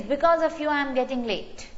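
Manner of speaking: mildly scolding, pitched a little up; half-hearted acted yell of blame; mock scream. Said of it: "If she screams at him and says".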